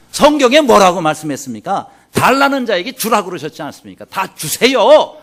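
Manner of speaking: loud, insistent preacher's rebuke; loud pastor telling them to give it all; stern rebuke. Retold or imitated. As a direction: scold them with scripture, slowing on the last words.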